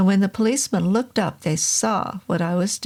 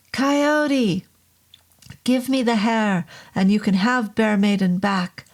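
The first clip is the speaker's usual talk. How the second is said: shouted bargain; 2 semitones higher than usual. Acted.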